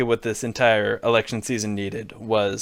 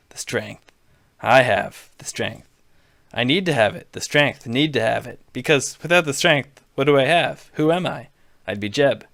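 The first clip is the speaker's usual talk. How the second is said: Trump voice. Acted. Donald needling Jeb on stage, lightly brash Trump voice. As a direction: bluster at him like a showman. Donald's tirade about himself.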